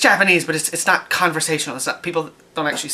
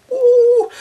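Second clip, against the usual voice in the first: squeaky high ooh of surprise; a sudden delighted squeal; 7 dB louder than usual. Real, not acted. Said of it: "reacting to buttons".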